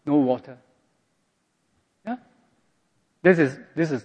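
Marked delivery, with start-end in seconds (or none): 0.1-0.6 muttered sarcastic complaint. Retold or imitated. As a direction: grumble "No water." under the breath. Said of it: "sarcastic and aggressive way".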